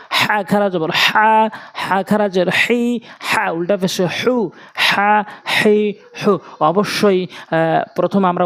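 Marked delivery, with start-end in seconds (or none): 0.1-6.4 slow spelling drill stretching হা, হি, হু; drawn-out long vowels. Shown as a demonstration. Teacher drilling madd of harakat, drawn-out vowels. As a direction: hold হা, হি, হু long and even. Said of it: "এক আলিফ করে টেনে টেনে পড়ব".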